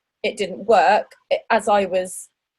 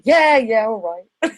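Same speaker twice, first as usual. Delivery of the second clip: grudging agreement; 5 dB louder than usual. Retold or imitated. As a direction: concede like a sulky kid who lost. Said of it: "And it's like".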